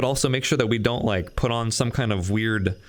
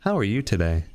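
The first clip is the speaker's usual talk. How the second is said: flat, lower robot voice; 4 semitones lower than usual. Acted. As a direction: speak like a stiff machine. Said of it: "Now I'm a robot".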